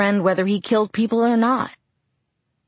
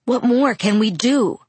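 higher, louder angry comeback; loud retort; 5 semitones higher, 4 dB louder than usual. Acted. Jacob to Bella, fed up, a loud angry retort. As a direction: snap it back, frustrated. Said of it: "he retorted".

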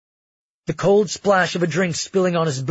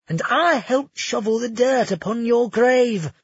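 higher, sneering nobleman's voice; gloating villain Curtis; 8 semitones higher, 3 dB louder than usual. Acted. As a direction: savor every word of the taunt. Curtis taunts Magnus.

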